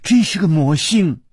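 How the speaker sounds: high-pitched, vexed outburst; stamping exasperation. A narrator's reading. Girl fed up with Chu Liuxiang, stamping exasperation. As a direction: burst out as if stamping your foot. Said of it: "那个少女跺着脚说".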